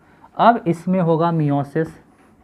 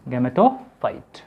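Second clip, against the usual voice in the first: Gametophyte split and stretched; drawn-out answer; 3 semitones lower, much slower than usual. Shown as a demonstration. Teacher answering own question for pupils, slow and stretched. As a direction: draw Gametophyte out slowly in two parts.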